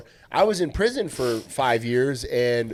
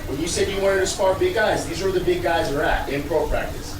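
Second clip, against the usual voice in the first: acted argument; 3 semitones higher than usual. Acted argument at front desk.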